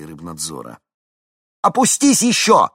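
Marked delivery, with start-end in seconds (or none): 1.6-2.7 very high, loud command; shouted order. A narrator's reading. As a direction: shout over the engine.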